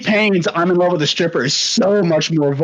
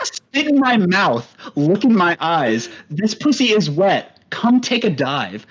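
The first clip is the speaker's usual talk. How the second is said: lightly put-on, measured white-guy recital; whitest voice. Shown as a demonstration. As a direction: read rap lyrics out carefully, evenly spaced. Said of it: "read it in the whitest voice that you got".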